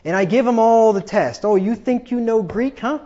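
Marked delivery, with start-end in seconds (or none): 1.5-3.0 mock challenge. Challenging an internet arguer in acted quote.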